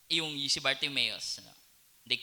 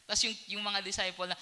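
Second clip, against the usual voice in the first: usual speaking voice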